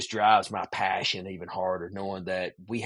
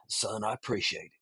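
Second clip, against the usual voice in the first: soft, understated imitation of a moved granddad; heartfelt granddad thanks; 9 dB quieter than usual. Granddad gripping the guide's shoulder, quietly heartfelt. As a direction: quietly voice an old man's gratitude.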